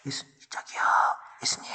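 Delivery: whispered, hesitant call; meek, barely audible whisper; timid calling. Acted. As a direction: try to get attention without daring to be heard. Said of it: "막 이렇게 했을까요?".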